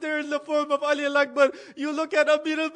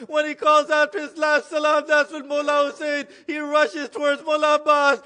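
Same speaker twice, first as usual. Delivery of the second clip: rising, louder preacher's climax with bursts; impassioned preaching; 4 dB louder than usual. Acted. Preacher narrating Abbas's death to mourners, impassioned. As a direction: drive the tragedy home to the crowd.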